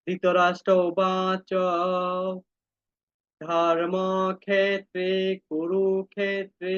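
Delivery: very slow, measured verse reading; shloka recitation. Shown as a demonstration. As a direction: recite each word slowly for students. Reads verse aloud for class. (ধীরে শ্লোক আবৃত্তি)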